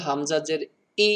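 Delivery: হামজা জের ই with ই cut off abruptly; ই snapped short with a catch; sudden ই. Shown as a demonstration. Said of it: "হঠাৎ করে উচ্চারণ করতে হবে". (হঠাৎ করে হামজা জের ই)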